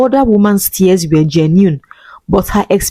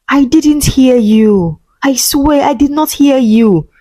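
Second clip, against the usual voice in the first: lightly higher mother-in-law voice; 5 semitones higher than usual. Acted. Mother-in-law voiced denying neglect.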